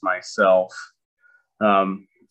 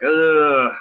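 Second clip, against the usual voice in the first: higher, drawn-out mock groan; retold exasperated groan; 6 semitones higher, 4 dB louder than usual. Dad seeing his boy on the couch, mock exasperated groan. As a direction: groan as a put-upon parent. Dad reacting to son's habit.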